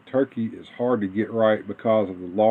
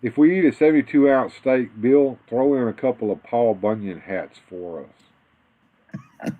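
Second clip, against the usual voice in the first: movie quote. Retold or imitated. Quoting a line from a movie.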